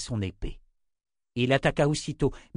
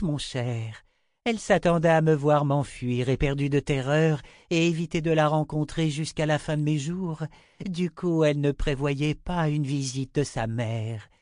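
higher, self-satisfied lecturing voice; smug enchantress; 4 semitones higher than usual. Acted. Chota explaining her ruse to Richard, smug. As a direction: explain the trick with superior relish.

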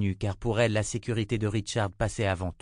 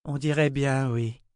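faint smile in a higher voice; pale smile; 5 semitones higher than usual. A narrator's reading. Sorceress agrees with Burdine, faint smile. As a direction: let a tired smile colour it. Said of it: "avec un pâle sourire".

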